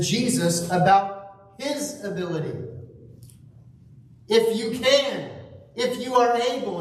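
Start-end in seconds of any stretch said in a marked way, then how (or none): 4.3-6.8 higher, unsure "If you can"; wavering plea. Retold or imitated. Father asks Jesus, higher and wavering. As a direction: plead with a doubtful waver. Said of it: "a wavering, an unsettledness".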